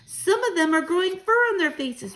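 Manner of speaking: put-on boy's high, loud excited cry. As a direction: point and cry out in amazement, pitched high. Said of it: "I cried".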